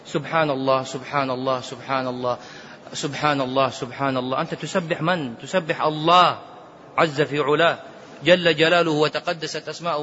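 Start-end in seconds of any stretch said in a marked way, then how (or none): 0.1-4.4 hasty tasbih. Retold or imitated. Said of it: "يطير في التسبيح".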